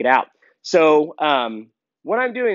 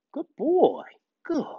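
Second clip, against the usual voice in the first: praise; 12 semitones higher, slower than usual. Real, not acted. High praise.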